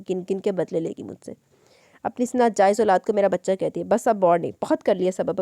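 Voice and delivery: a man furious at a woman who challenged him; angry rant. Acted. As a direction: vent his rage while pacing. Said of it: "गुस्से से बोला".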